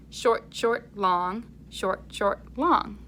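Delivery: short clipped beats, long held ones; short and long rhythm. Shown as a demonstration. Teacher modelling the rhythm pattern for children. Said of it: "the sounds there sound like this".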